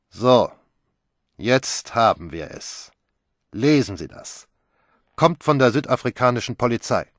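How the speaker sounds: brisk inspector. Acted. Inspector produces the telegram.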